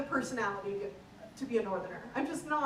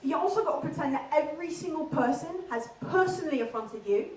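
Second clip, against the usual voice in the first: puffed-up, dim Essex lad accent; 3 dB louder than usual. Shown as a demonstration. Comic teaching the crowd Love Island talk, in an Essex accent. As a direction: Essex accent, as if personally affronted. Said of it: "we have Essex".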